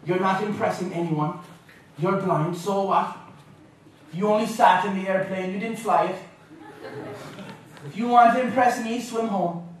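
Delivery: put-on dry Irish-accented put-down; Irish-accented grandmother. Grandmother in the crowd belittling her grandson, Irish-accented put-down. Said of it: "She'd be like".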